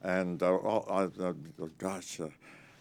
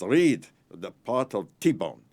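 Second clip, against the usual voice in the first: slow command; 2 semitones higher, 9 dB louder, much slower than usual. Retold or imitated. Preminger quoted ordering.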